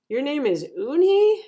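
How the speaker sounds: wide-eyed surprise. A narrator's reading. Joey finding out his friend's real name, wide-eyed surprise. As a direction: voice climbs in wide-eyed disbelief. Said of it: "he asked her with his eyes wide open".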